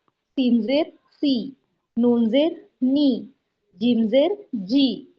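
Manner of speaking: slow, spelled-out letter drill; slow teaching drill. Shown as a demonstration. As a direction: draw each syllable out for pupils. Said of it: "ये देखिए काफ जेर की".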